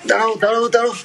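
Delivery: high, loud call to stop; pleading shout to the pet to wait. Real, not acted. Chasing pet Sona.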